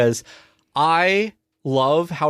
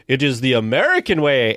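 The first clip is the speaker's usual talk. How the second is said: lightly imitated proud proclamation; a hint of pompous headmaster; Sam Eagle. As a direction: declare it firmly, leaning on AMERICAN. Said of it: "where he's like".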